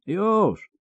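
very high pained cry; drawn high yelp of surrender; howled. A narrator's reading. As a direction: howl it high, begging the beating to stop. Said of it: "zawył Wiedźmin".

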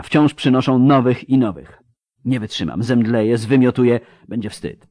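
rising, desperate inner monologue; overwhelmed despair. Acted. Exhausted assistant thinking she will faint, mounting despair.

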